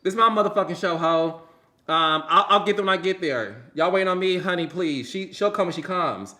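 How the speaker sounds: sassy mock diva boasting; diva attitude. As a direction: act out a woman who owns the show. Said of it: "women say".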